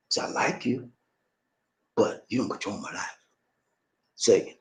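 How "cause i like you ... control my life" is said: soft, restrained firmness; power and feeling. Shown as a demonstration. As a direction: set a boundary quietly. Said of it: "Tell her this like that, with power, strength, emotions".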